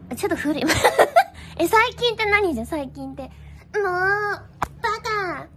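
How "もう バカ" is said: 甘えて拗ねる妹の芝居; 少し高めに可愛くなじる; 妹キャラ. Acted. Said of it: "これ妹キャラじゃない". (妹キャラ風に)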